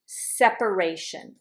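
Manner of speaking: "separation" said sep-uh-RAY-shun; four clear syllables in "separation"; middle syllable pronounced. Shown as a demonstration. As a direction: sound the vowel after "sep" in "separation". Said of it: "I pronounce it".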